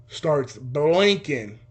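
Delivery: very slow, stretched-out words; drawn-out suspense. Retold or imitated. Storyteller recalls the red camera light, drawn out in suspense. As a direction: draw it out for dramatic suspense.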